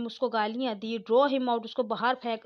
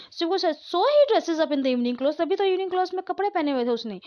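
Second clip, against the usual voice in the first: agitated exclamation; 5 semitones higher, 3 dB louder than usual. Acted. Daughter realises too late.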